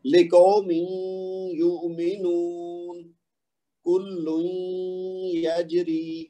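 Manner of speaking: لِقَوْمٍ يُؤْمِنُونَ recited with merged tanween and nasal hum; تلاوت; Quranic recitation. Shown as a demonstration. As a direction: recite the verse words slowly in tajweed. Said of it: "یہ دیکھ لیجئے جی".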